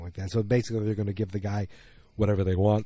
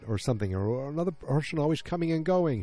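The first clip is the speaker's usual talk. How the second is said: put-on grumpy old boss; 6 semitones higher than usual. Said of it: "He's like".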